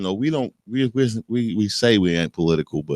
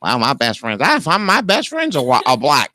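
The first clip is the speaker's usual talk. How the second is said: lightly voiced white person, pitch jumping high on the second line; a light send-up of a defensive white person; mock white person; 5 semitones higher than usual. Host mocking what white people say, lightly voiced. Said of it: "That's what white people say when they go".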